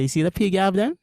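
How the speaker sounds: Jamaican accent. Shown as a demonstration. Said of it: "That's how it's really said in Jamaica".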